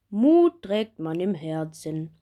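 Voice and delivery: kind doctor. Acted. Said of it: "lacht Doktor Weberknecht".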